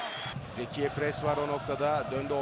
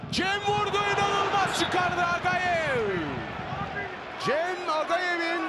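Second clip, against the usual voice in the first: excited call; 6 semitones higher than usual. Real, not acted. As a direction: shout the shot, stretch the save. Shot and great save.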